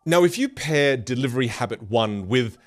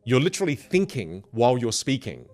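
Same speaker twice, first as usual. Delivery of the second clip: ordinary talk, nothing marked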